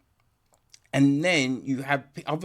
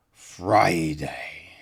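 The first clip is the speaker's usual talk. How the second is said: whispered title; 8 semitones lower, 4 dB louder than usual. Acted. Title said as spooky reveal.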